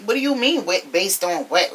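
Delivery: mock-indignant repeat; snippy. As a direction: mimic an affronted challenge, drawing out the last question. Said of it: "Britt got all snippy with her".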